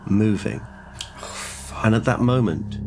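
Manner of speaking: measured storytelling, letting each phrase hang; game master narration. A narrator's reading. Game master describes the moving wall to the player, suspenseful narration.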